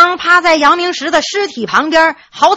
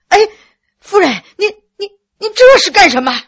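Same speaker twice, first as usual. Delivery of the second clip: stammering, rising higher and faster in alarm; frightened; 7 semitones higher, 5 dB louder, faster than usual. A narrator's reading. Doctor startled as the widow lunges at him, frightened stammer. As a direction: back away and stammer in fright. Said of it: "惊恐地说".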